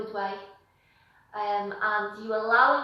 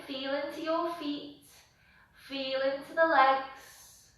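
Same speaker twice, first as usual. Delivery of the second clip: guided meditation. Real, not acted. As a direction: guide them unhurriedly through each breath. Leads breathing and body check-in.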